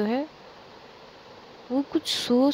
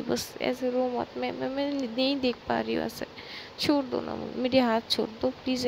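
desperate pleading; 2 semitones higher than usual. Acted. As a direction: plead as if you can't bear to see her cry. Pankhuri begs Maysha not to cry.

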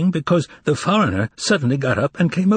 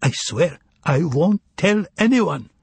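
mock fright; 5 semitones higher than usual. A narrator's reading. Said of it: "He made his eyes pop in mock fright".

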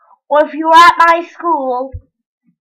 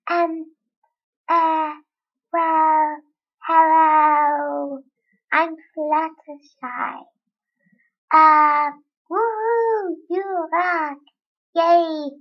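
Fluttershy; slower than usual. Pretend. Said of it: "my impersonation of Fluttershy".

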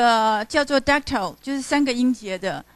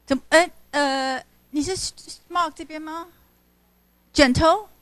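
usual speaking voice

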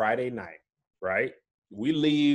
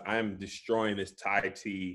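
chewing boba while talking; mouth full; 7 semitones lower, 7 dB quieter, slower than usual. Real, not acted. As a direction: talk through a mouthful. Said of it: "I'm chewing boba".

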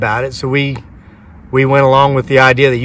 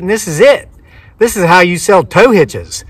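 higher-pitched retold accusation; accusing; 4 semitones higher than usual. Winner tells clerk he knew of a catch, accusing. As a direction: call out the scam, lightly indignant.

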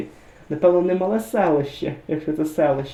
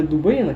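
«Дубина» з наголосом на середньому И; наголос у слові «Дубина». Shown as a demonstration. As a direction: stress the middle syllable of «Дубина». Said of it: "Там зовсім інший наголос". («Дубина» з виразним другим складом)

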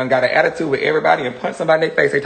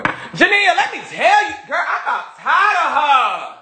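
laughing; 11 semitones higher than usual. Real, not acted. Laughing high gossip to Jania.

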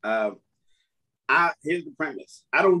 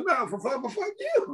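mocking stutter back; 7 semitones higher, 5 dB quieter than usual. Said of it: "And I go".

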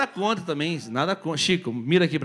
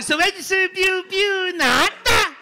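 retold joke; 11 semitones higher, 7 dB louder, much slower than usual.

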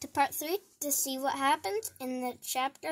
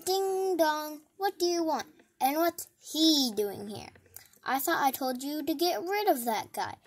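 huffy boss at the door; a hint of a bossy mayor; grumpy mayor; 3 semitones higher than usual. Mayor voice in story.

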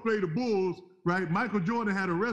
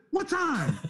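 high, laughing alarm; stunned, half-laughing; alarmed question; 8 semitones higher than usual. Retold or imitated. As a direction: ask in rising panic through a laugh.

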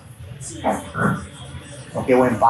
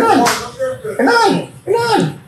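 excited; 8 semitones higher, slower than usual. Real, not acted. Reclama penal viendo la repetición.

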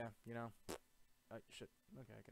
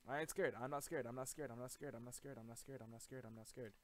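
fading bravado; 4 dB louder than usual. Real, not acted. Repeating bravado while fleeing.

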